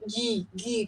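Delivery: soft "gi, gi" with lips pushed forward; two quiet, even "gi" sounds, placed forward; forward syllable. Shown as a demonstration. Oboist showing how lips make that sound, forward "gi". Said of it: "my lips are coming forward".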